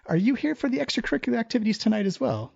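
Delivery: polished, courteous innkeeper; silky, overly polite host; smooth host voice. Acted. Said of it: "this part's all in Infernal".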